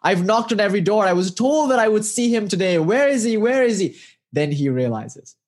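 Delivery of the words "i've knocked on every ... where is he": mildly exasperated, pitch climbing on the questions; lightly acted plaintive complaint; disappointed. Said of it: "jaded and disappointed".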